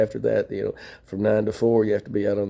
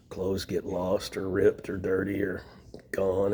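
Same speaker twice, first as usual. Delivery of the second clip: whispered lament; 3 semitones lower, 6 dB quieter, slower than usual. Real, not acted. Recounting losing everything.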